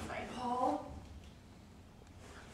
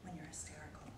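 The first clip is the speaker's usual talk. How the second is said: lower, much softer, withdrawn; cold quiet; 9 semitones lower, 13 dB quieter than usual. Acted. Wife turning quiet and cold on her husband. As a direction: pull back to an icy hush.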